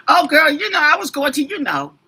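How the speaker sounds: lightly mimicked kid, starting high and loud; imitating young kids. Host mocking how young kids talk, light mimicry. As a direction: mimic a young person's vague chatter, tailing down. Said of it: "how these young kids talk like that".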